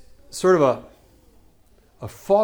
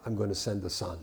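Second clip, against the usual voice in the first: soft, hushed divine voice; God speaking; 4 semitones lower, 4 dB quieter than usual. Acted. God the Father quietly revealing the plan in history. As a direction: let God confide his plan quietly. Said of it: "God the Father ... saying".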